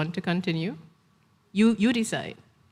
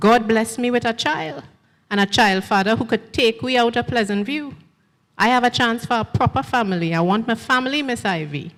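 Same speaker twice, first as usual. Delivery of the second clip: put-on pleading young woman; 4 semitones higher, 4 dB louder than usual. Gail pleads for a family.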